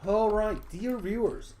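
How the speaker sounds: high, loud put-on Australian announcer; attempted Australian accent. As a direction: greet the viewers in a hammed-up Australian accent. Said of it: "I wanna be Australian".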